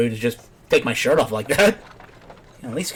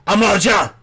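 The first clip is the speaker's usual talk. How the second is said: loud shouted name, pitched up; mock shout; 7 semitones higher, 5 dB louder than usual. Player echoing the game's shout, mock yelling. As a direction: yell the name at the screen. Mimicking game character's shout.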